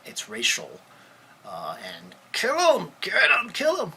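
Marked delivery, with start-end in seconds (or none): 2.3-3.9 high, furious screamed chant; violent screaming cop. Retold or imitated. Officer yelling at fellow cops during the beating, savage scream. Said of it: "I said it just, just like that".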